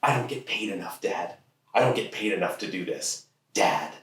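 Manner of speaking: lightly voiced sulky teenager; a hint of teen complaint. Teen complaining to dad about pay, lightly sulky. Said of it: "in my teenager voice".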